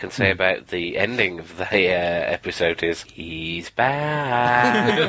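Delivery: with a cold. Real, not acted. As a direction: voice thick with a cold. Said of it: "Sorry, my cold".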